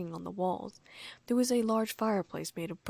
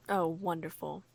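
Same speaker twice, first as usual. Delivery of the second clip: grumpy. Acted. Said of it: "Harry said grumpily".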